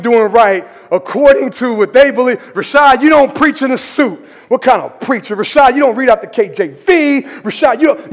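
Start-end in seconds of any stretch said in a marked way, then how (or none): 2.5-8.1 nitpicking critics. Acted. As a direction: imitate church critics picking at the preacher. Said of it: "this is what people do".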